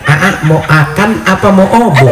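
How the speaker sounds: put-on "akan" and "obo" said with sounds dropped, childish; lisping baby talk. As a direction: coo "mau akan apa mau obo" dropping the consonants. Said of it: "cadelin sama kita".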